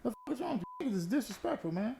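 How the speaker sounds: very high, cracking mock scream; squealing outrage. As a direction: shriek it like your clean truck is being ruined. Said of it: "I'm like".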